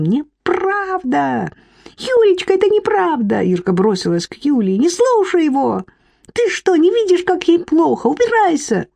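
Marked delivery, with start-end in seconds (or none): 0.0-3.4 desperate high plea. Acted. Irka pleading with Yulia, very high desperate cry. 4.8-8.9 very high hysterical pleading; hysterical shriek. Acted. Irka at Yulia's bed, very high hysterical shriek.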